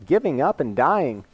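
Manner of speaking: high, swooping celebrity impression of a father; impersonated dad urging his son on, pitch leaping; Christopher Walken. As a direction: tell a fable in halting, lilting bursts. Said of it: "he's talking to his son. He's like".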